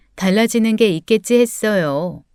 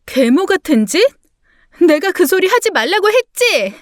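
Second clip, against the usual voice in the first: high, indignant retort; angry outburst; 8 semitones higher than usual. Acted. Wife accused by husband of stepmother behaviour, angry outburst. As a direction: fire back, pitch jumping up in outrage.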